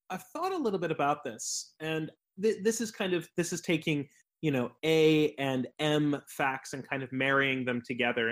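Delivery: speaking with a room echo; big hall echo. Real, not acted. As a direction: voice echoing back on the call. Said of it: "I'm echoing on you".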